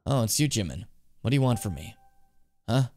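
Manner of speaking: understated, hushed bug enthusiast; lightly voiced bug collector. Bug collector confiding in Jimin about deals at night, lightly voiced and quiet. Reads game character's dialogue aloud.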